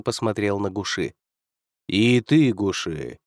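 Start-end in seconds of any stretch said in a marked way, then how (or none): 1.9-3.2 eldritch horror. Acted. Otherworldly lord addresses Gushi.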